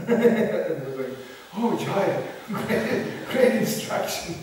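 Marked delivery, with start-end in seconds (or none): 1.6-4.3 higher, louder cheer broken by laughter; mock-delighted devotees, laughing through it; laughing mock enthusiasm. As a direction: imitate eager followers while cracking up. Mimics devotees cheering an unwelcome order.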